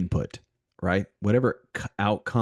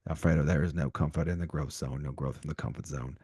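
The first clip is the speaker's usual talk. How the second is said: bad Australian accent; 4 semitones lower, 4 dB quieter than usual. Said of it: "That was Australian".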